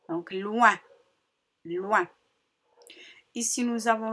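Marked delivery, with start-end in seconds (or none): 0.3-2.1 "loin" with l gliding into oin, twice; blending demonstration. Shown as a demonstration. Teacher blending L with oin, "loin" repeated distinctly. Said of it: "avec le L".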